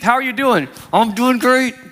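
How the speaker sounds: forced reply through gritted teeth; through clenched teeth. Shown as a demonstration. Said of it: "while through clenched teeth".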